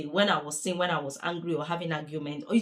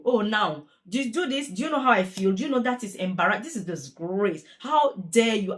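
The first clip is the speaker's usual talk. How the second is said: telling off an imagined offender; mock confrontation; 2 semitones higher, 3 dB louder than usual. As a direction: scold the person who upset you, half-acted. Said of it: "now I'm gonna pretend this is you".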